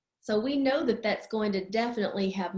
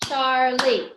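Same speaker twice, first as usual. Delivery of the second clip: CHARLIE punched in two beats; syllable by syllable; 6 dB louder than usual. Shown as a demonstration. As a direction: count out CHAR and LIE in CHARLIE. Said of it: "Charlie has two syllables".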